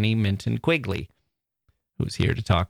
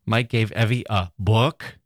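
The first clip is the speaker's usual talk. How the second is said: book pressed, rising end; stress on book. Shown as a demonstration. Host ends the demo stressing book. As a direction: push book. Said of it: "emphasizing a single word".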